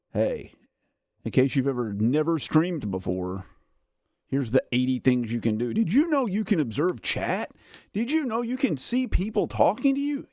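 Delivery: rising, mocking chirpy helper voice; mock YouTube notifications. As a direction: parody an overeager app nagging you.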